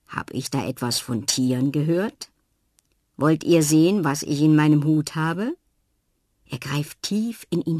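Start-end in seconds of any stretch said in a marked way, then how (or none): 0.1-5.6 teasing, louder invitation; playful old magician. Acted. Sven Svensson teases the children about his hat, playful, louder. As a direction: tempt the children to look.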